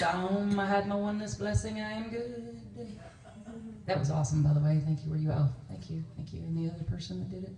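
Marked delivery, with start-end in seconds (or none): 0.0-2.6 mock blissful. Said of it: "Where you're peaceful, peaceful, moving at the pace of peace".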